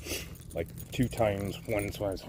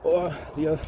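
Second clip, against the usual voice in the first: high, loud roughneck caricature; put-on neighbor voice, pitched up; neighbor impression; 8 semitones higher, 5 dB louder, slower than usual. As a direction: imitate the impaired neighbor insisting. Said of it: "he used to talk like this".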